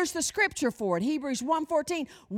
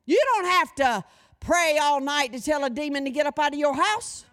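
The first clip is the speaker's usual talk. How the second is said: ordinary talk, nothing marked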